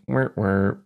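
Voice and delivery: little spoken "wah, wah" effect; imitated game sound. Describing the jump sound to co-host, imitated effect. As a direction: mimic a small repeated suit noise. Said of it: "kind of like".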